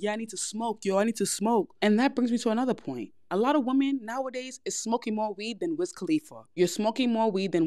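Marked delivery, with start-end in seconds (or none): 0.0-1.7 mock tough craving. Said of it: "acting all tough".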